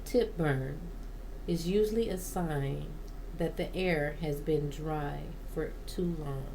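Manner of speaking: measured informational read-aloud; steady reading from a guide. Real, not acted. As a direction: read it out from a plant-care book. Reads a plant guide aloud.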